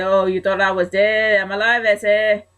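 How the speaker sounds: hammed-up, badly faked Latino accent; Eddie, horrible accent. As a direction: play a returning wrestler with a clumsy Latino accent. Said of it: "very sorry about that horrible accent".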